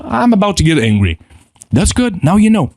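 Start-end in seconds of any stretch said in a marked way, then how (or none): 0.0-1.2 a touch higher, tense admission; name the anger as it rises; lightly heightened self-warning; alert self-acknowledgment. Shown as a demonstration. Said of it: "if you acknowledge yourself".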